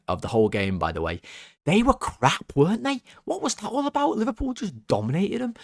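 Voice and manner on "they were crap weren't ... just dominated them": gleeful mockery. Real, not acted. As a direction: voice jumps much higher, gloating. Gloating about beaten opponents.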